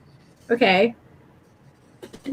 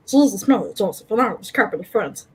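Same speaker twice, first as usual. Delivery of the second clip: put-on Irish Gollum accent; 3 semitones lower, much faster than usual. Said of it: "Irish Gollum accent".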